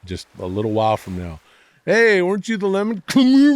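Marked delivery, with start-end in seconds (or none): 1.8-3.5 much higher and louder, squealing fan voice; excited fan. Pretend. A fan spotting him at the subway, high excited voice. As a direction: gush like a starstruck fan.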